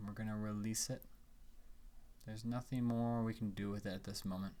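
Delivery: calm guiding voice with long pauses; unhurried phrases, leaving room to breathe; guided meditation. Acted.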